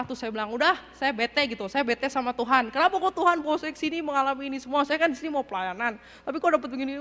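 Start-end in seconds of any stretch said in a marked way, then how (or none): 0.5-1.4 mildly fed-up complaint; retold annoyance. Upset missionary telling God she is fed up, mildly angry. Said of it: "saya marah-marah". 1.7-7.0 mildly indignant, slightly raised protest; retold angry complaint. Upset missionary asking God why this happened to her, mildly angry. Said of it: "saya marah-marah".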